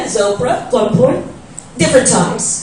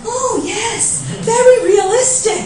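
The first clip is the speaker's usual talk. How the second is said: mock middle-aged women; 8 semitones higher, 4 dB quieter, slower than usual. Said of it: "middle-aged women going".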